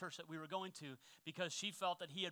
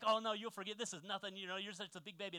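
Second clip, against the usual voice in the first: teasing; 3 semitones higher than usual. Retold or imitated. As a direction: poke fun at him like a smug kid. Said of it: "I was having so much fun".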